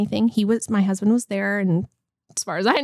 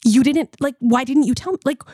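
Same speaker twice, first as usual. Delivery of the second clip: retold ticked off; 3 semitones higher, slower than usual. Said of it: "I was so ticked off".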